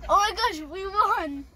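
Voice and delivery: high, loud cry of joy; shrieking jackpot winner. Real, not acted. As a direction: shriek like you just hit the jackpot. Reacting to winning the giveaway.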